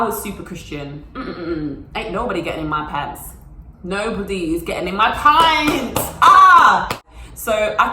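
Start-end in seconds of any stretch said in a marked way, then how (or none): 1.1-6.0 sassy refusal. Retold or imitated. Sassy declaration of chastity. 6.2-6.9 loud high yelp; sharp yelp. Acted. Ending her rant with a loud high yelp. Exclamation shout.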